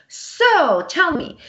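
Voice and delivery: retelling her own blunt interview question. Retold or imitated. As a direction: put it to her straight and pointed. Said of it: "I'm always blunt".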